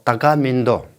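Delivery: unvoiced whisper on तका मिंदो; whispered example. Shown as a demonstration. Example sentence in Tani.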